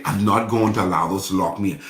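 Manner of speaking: quick, firm repeat in full voice; brisk restatement. Real, not acted. Preacher restating the vow to the congregation, brisk and firm. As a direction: rattle the vow off with conviction.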